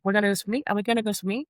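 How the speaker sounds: lightly voiced child on repeat; mimicking her son. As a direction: ask again and again like an impatient child. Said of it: "So if it's like".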